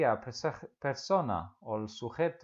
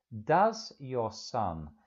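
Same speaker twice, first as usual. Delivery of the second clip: slow, drawn-out question opening; slow model question; 4 dB louder, much slower than usual. Shown as a demonstration. Teacher modelling how to begin a question, very slowly. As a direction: lay out each word slowly.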